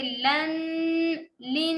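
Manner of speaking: لن with a held nasal n; nasal ghunna. Shown as a demonstration. Teacher demonstrates ghunna: nasal لن. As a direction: hum the n of لن through the nose. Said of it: "یہاں پہ غنہ ہو رہا ہے".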